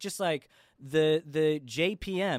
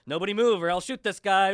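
sheriff's bluff; 5 semitones higher, 5 dB louder than usual. Retold or imitated. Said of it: "a very Bugs Bunny tactic".

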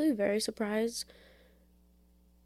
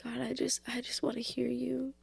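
whispered prayer; 5 dB quieter than usual. Real, not acted. Quoted prayer to God.

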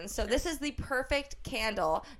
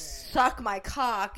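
mock crude greeting; 4 semitones lower, much slower than usual. Acting out her own snippy mood.

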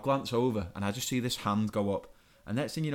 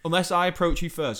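emphatic rant; 5 semitones higher, 6 dB louder than usual. Real, not acted. Ranting rule to listeners.

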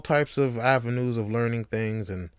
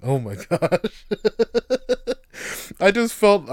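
usual speaking voice

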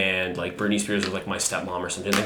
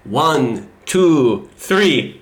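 imitating an excited teen; 3 semitones higher, 3 dB louder, much slower than usual. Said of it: "and they said".

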